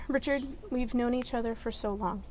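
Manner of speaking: saying wedding vows. Acted. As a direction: speak your vows tenderly. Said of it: "Jeanette, you start".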